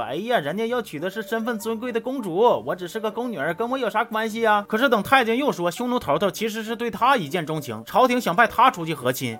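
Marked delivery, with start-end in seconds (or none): 0.0-4.6 mock-sulky grumbling about the princess; sour, jealous tone. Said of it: "就酸不拉几的说". (酸溜溜的轻声抱怨)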